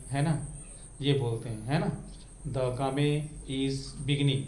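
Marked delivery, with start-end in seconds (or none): 2.4-4.4 game misread as GAA-may, word by word; बच्चों का गलत उच्चारण. Retold or imitated. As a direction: imitate children sounding the final e in game. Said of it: "ये कहते हैं". (game को गामे पढ़ते हुए)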